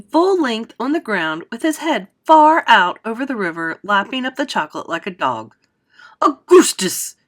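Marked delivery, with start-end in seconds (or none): 6.2-7.2 high, loud mother's shout. A narrator's reading. Mother shouts at her son lapping chocolate. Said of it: "shouted Missus Gloop".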